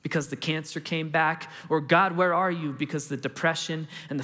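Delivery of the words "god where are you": a lightly raised, imitated plea; mild retold shout. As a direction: cry out to God, held back. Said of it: "when we shout out".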